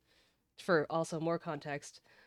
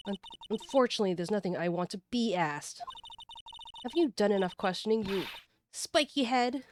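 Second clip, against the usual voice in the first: snide Miss May; 5 semitones higher than usual. Acted. Suspect taunting the lawyer, fast snide jeer. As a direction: rattle off the insult. Voices game character.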